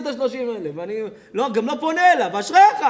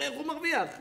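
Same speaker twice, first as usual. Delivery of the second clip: mock the petty neighbour who wants to report him; laughing parody of a jealous grumbler; mocking envious neighbour; 3 semitones higher, 3 dB louder than usual. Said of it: "ואתה אומר".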